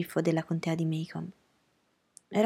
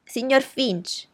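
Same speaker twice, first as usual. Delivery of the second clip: higher, slow, drawn-out call into the phone; understated, higher-pitched telephone holler; mild yell; 6 semitones higher, 3 dB louder, much slower than usual. A narrator's reading. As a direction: read a restrained yell down the line, stretching the name. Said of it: "urlò nel microfono".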